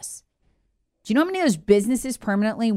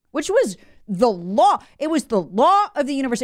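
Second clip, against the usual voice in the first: sarcastic; 4 semitones higher than usual. Real, not acted. Sarcastic about distancing rules.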